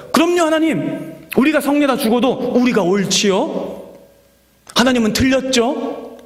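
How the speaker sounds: high-pitched defiant cry of agreement; mock outcry. North Israelite readers shouting agreement with Jonah, high defiant outcry. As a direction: raise the voice high, siding with Jonah against God. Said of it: "똑같이 외쳤을 거예요".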